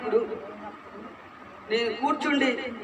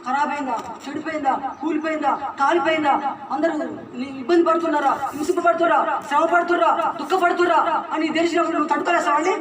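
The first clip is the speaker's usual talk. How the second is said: fervent preaching. Acted. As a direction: press the congregation harder with each question. Preacher building to rhetorical climax.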